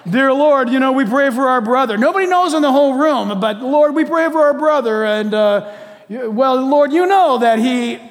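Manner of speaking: loud hammed-up gossiping prayer. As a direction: pray piously but sneak in the gossip. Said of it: "sin goes on in a prayer meeting".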